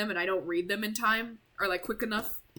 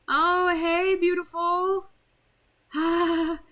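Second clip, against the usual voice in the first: higher and louder, a put-on girlish voice; crazed sweet voice; 8 semitones higher, 5 dB louder, much slower than usual. Yuri greeting the player, high crazed voice. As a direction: greet him like a lovesick maniac.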